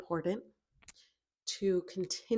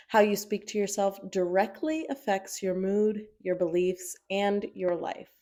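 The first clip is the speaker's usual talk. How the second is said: louder, emphatic read-aloud delivery; reading a prompt aloud; 7 dB louder than usual. Acted. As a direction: read the journal prompt out firmly. Reads out the journal prompt.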